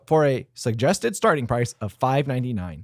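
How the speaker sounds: measured promotional read; announcer-style product read. Acted. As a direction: read the menu copy out deliberately. Reads food promotion copy.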